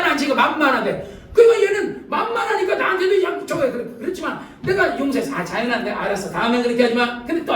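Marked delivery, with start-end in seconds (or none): 5.3-7.2 lower, easygoing reassurance; forgiving grandpa. Retold or imitated. Grandfather to his grandchild who apologized, mildly forgiving. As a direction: gently let the child off, voice dropped.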